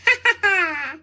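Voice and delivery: big hearty belly laugh; roaring laughter. A narrator's reading. The snowman roaring with laughter, hearty laugh. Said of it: "it roared with laughter".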